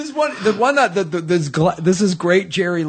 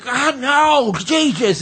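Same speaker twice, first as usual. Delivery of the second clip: higher-pitched mock exasperation; exasperated; 9 semitones higher, much slower than usual. Drunk caller failing to be understood, exasperated. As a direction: imitate a frustrated drunk caller.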